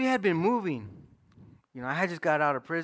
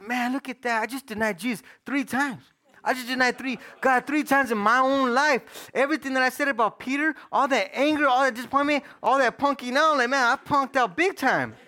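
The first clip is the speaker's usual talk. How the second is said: pitched-up, retold realization; convicted self-reproach; 5 semitones higher than usual. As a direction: turn the accusation on yourself. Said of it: "deep, deep conviction comes over me".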